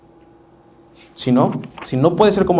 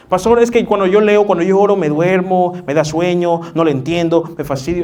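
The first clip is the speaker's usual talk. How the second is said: whiny complaint; 2 semitones higher than usual. Retold or imitated. Congregant complaining to pastor.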